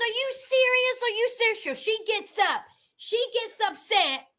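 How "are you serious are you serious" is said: retold disbelief. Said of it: "so she said".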